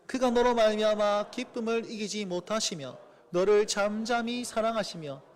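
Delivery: slow, measured reading of scripture. Acted. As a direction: read the verse slowly and solemnly. (천천히 낭독하는 성경 말씀)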